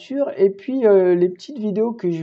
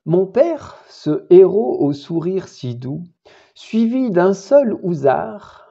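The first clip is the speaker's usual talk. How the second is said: measured, deliberate poem reading; poetry recitation; 3 semitones higher, 3 dB louder, slower than usual. Acted. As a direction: recite verse with weighted phrases. Récite le poème. (récitation de poème posée)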